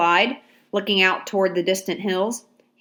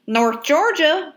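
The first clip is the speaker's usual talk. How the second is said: slow, higher North Georgia drawl; Georgia accent; 8 semitones higher, 3 dB louder, slower than usual. A narrator's reading. Soldier answers Abraham's question, slow Georgia drawl. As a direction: drawl it proudly. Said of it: "a Georgia accent".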